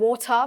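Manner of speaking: water with no R at the end; R dropped. Shown as a demonstration. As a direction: let water end on an open vowel. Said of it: "उसमें आर भी आता था। अब".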